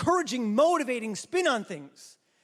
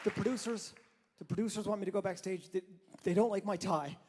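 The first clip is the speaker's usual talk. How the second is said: hushed aside; 4 semitones lower, 7 dB quieter, faster than usual. Acted. Aside while leaving stage.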